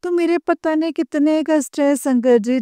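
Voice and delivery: ordinary delivery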